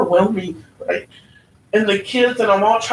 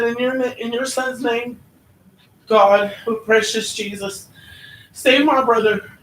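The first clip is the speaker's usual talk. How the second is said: retold prayer. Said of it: "I holler out to God".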